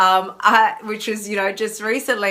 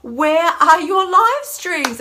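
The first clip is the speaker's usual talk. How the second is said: mock demanding; 8 semitones higher, 5 dB louder, much slower than usual. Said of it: "this is my interpretation".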